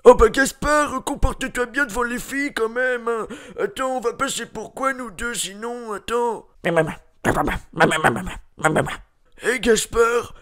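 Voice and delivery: a lightly voiced fussy friend; prissy character voice. Scolding Gaspard about the girls, mild prissy voice.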